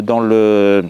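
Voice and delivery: hesitant, stumbling restarts with long fillers; bafouillage. Real, not acted. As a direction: stumble over the phrase, searching for the word. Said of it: "je bafouille, encore une fois". (bafouiller en cherchant ses mots)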